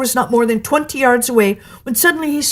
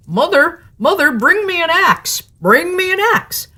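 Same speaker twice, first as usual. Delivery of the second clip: higher, urgent calling; Jack calling out; 8 semitones higher, 3 dB louder than usual. A narrator's reading. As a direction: shout for help in a hurry. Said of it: "So he called out".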